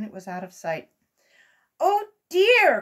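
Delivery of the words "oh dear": higher, louder groan of dismay; an old rabbit's worried wail; dismayed cry. A narrator's reading. Uncle Wiggily seeing his airship leave, dismayed. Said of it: "cried Uncle Wiggily".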